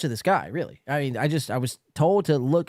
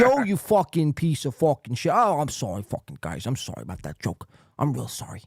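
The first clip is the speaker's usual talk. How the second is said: imitated thick Northeastern accent; mock the comic with a thick Northeastern accent; apologetic comic in a put-on Northeastern accent. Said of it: "thick fucking, like, Northeastern accents".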